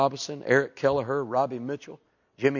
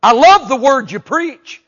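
voice of God; 10 semitones higher, 15 dB louder, slower than usual. Acted. Voicing God to the preacher.

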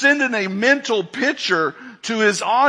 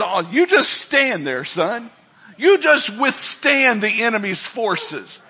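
the Lord speaking; 3 semitones higher than usual. Retold or imitated. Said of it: "And the Lord says".

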